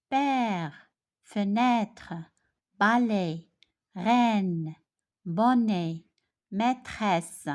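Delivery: Père, fenêtre, balai, each said alone with a long open è; pronunciation demo. Shown as a demonstration. Teacher has pupils listen for a repeated sound, pronunciation demo. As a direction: model each word from Père to maîtresse, drawing out the è. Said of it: "Je répète".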